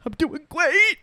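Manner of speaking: put-on very high, loud tearful child; Jasper impression. Little cousin insisting he's fine, high loud mock-tearful voice. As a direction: imitate a kid bravely choking back sobs. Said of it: "he'd be trying not to cry".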